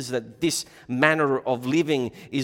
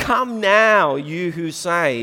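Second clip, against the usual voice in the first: loud, slow, scornful and sarcastic tone; 4 semitones higher, 6 dB louder than usual. Explaining a passage from James: sarcastic denouncing tone. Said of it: "it's supposed to be like denunciatory, like".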